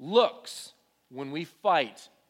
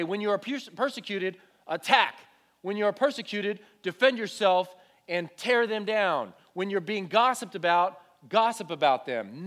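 louder, scornful voice quoting false commands; mock commanding quote; 4 semitones higher, 5 dB louder than usual. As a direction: bark out the commands as a parody. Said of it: "God does not say".

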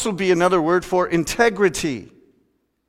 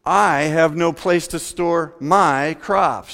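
the rich man's question drawn out slowly, pondering; a slow, self-absorbed farmer wondering where to store his crops; slow musing rich man; 2 semitones higher, slower than usual. Acted. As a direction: think it through aloud, unhurried. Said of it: "He thought to himself".

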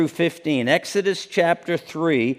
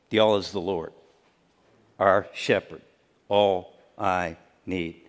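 hushed reverence; 10 semitones lower, 6 dB quieter than usual. Acted. Soft reverent repetition of theme.

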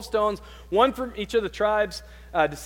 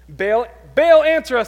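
loud, high desperate calling to Baal; shouted plea; 6 semitones higher, 11 dB louder than usual. Acted. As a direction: cry out loud to an idol that won't answer. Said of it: "they shouted".

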